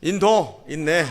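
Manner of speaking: brief demand in Gyeongsang accent; Gyeongsang dialect. Shown as a demonstration. Pastor shows "give it, it's mine", Gyeongsang accent. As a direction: say it curtly, Gyeongsang style. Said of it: "경상도 말로".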